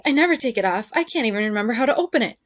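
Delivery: high, fast panicked rush; frantic. Acted. Ellen panics that she can't open her necklace, frantic and fast. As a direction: blurt it out, fingers fumbling. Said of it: "Ellen said frantically".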